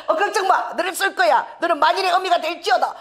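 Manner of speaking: high, amused prophetic declaration; imitated proclamation. Imitating a son comforting mother, high mock proclamation. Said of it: "애가 막 선포를 하더라고".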